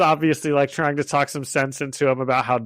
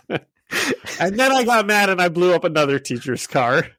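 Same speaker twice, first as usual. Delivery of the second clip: put-on Russian accent; 3 semitones higher than usual. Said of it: "he's doing it all in, like, a Russian accent".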